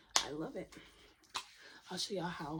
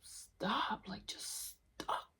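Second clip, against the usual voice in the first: begging with drawn-out, spaced stops; plead, leaving space round each stop; much slower than usual. Real, not acted. Begging viewers to break their cycles, pleading. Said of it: "begging you to stop".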